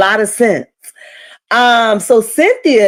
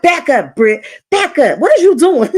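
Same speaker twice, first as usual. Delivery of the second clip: alarmed warning, pitched high; 6 semitones higher than usual. Retold or imitated. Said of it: "I was like".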